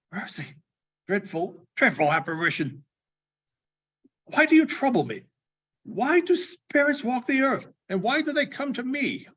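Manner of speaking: rising high, pleading in fear; frightened old miser crying out to a ghost; horrified plea. Acted. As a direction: beg the phantom to leave him be. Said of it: "how much greater his, was his horror".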